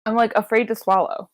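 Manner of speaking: talking around lip gloss; mouth full. Real, not acted. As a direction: stuff in the mouth while speaking. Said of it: "plumping lip gloss in my mouth".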